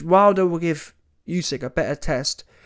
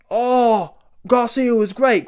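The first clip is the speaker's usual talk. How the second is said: higher, louder put-on fan voice, gushing; mocking fan praise; 7 semitones higher, 5 dB louder, slower than usual. Mocking fans praising Garcia.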